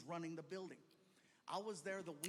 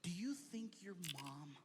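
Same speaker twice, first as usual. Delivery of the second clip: whispered secret; 3 semitones lower, slower than usual. Retold or imitated. Emily's secret offer.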